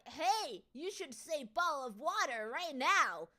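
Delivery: loud, drawn-out mock demand; slow, insistent mimicry of an American fan; pushy American imitation. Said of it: "no, they're like".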